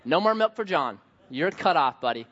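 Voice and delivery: hammed-up scold of a cow and a kid; mock scolding dad. Dad to cow eating diaper, mock-stern scolding. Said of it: "just like".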